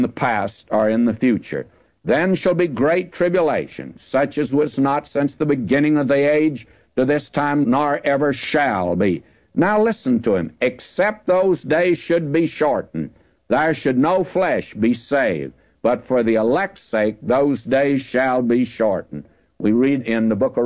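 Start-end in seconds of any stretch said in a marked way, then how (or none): 2.0-9.2 raised, solemn Bible reading voice; scripture reading. Acted. Reads scripture aloud. 10.6-19.2 raised, slow, solemn Bible voice; slow scripture reading. Acted. Reads scripture aloud.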